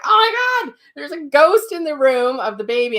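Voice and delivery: high, loud alarmed cry; startled shriek at a ghost; mother spots a ghost by the crib, high and alarmed; frightened gasp. Retold or imitated. Seeing ghost in baby's room.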